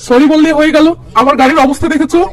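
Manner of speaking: angry. Acted. Stranger yelling about his damaged car, angry and loud. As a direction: shout at the man who hit your car. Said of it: "লোকটি রেগে মেগে বলে".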